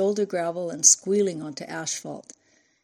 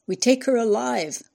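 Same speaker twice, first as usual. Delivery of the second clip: loud, higher furious hiss; 5 semitones higher, 5 dB louder than usual. A narrator's reading. Driver to goon after the shot, furious hiss. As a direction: spit it at your partner in fury. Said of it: "hissed furiously".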